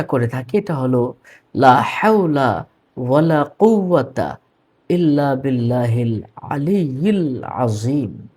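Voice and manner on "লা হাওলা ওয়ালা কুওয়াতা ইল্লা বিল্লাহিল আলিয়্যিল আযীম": recitation. Shown as a demonstration. Reciting Arabic.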